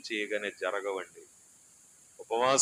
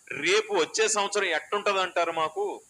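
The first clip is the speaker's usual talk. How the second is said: anxious congregant; 6 semitones higher, 4 dB louder than usual. Retold or imitated.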